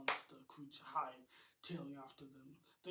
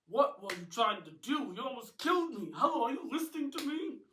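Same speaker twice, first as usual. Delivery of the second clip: loud, high outraged yelling; angry; 8 semitones higher, 13 dB louder than usual. A narrator's reading. Housekeeper Audrey yelling at the Hydra man, outraged. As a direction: demand an answer, furious. Near-miss by fireball, angry.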